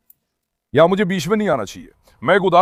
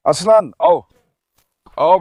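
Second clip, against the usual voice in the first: calling the dog, louder; raised voice calling a dog by name; 7 dB louder, slower than usual. Real, not acted. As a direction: call him over across the yard.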